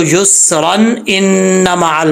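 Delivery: युसरन run into इन्ना मअल, final n sounded; joined reading. Shown as a demonstration. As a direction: link युसरन इन्ना मअल without stopping. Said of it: "अगर आप मिला के पढ़ेंगे". (युसरन इन्ना मअल मिलाकर पढ़ना)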